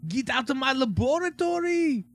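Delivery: high nasal cartoon boy voice; Dexter voice. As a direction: squeal it like a bratty boy genius.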